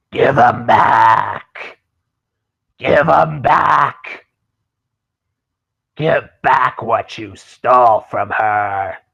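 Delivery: snarling, growling voice. Narrating a voice calling from alongside the ship, in a snarling, growling voice. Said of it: "you hear a snarling, growling voice".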